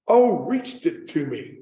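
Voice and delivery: slow, drawn-out "reached", with a long ee; "reached" with a long ee, dawning understanding; clarifying REACHED. Retold or imitated. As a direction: say "reached" slowly, as if working out the word. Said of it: "But she said "retched it," but reached it".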